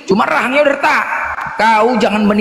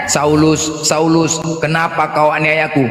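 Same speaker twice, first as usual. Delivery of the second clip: lower, solemn calling voice; voice of Jesus; 5 semitones lower, slower than usual. Retold or imitated. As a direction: call out to Saul lower and grave. Retelling Jesus speaking to Saul. (suara Yesus yang lebih rendah dan khidmat)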